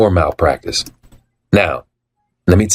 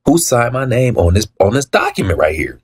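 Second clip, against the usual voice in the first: raised voice; 5 semitones higher than usual. Retold or imitated. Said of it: "I raised my voice".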